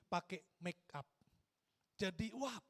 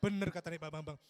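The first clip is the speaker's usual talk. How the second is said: louder, firm declaration; emphatic confirmation; 4 semitones lower, 6 dB louder than usual. Acted. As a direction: repeat it out loud with emphasis. Repeats confirmation more emphatically.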